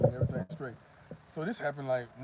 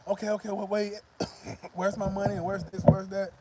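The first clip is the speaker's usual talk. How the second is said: getting impatient; 5 semitones higher, 3 dB louder than usual. Retold or imitated. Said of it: "starting to get a little hyper".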